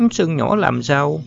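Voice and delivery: a light woman's voice, playfully scolding; Thiểm Hương scolding. Acted. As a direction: scold him for the scare.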